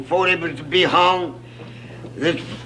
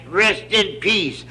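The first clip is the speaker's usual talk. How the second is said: slow punchline; 3 semitones higher, slower than usual. Retold or imitated. Punchline read off casket, slow.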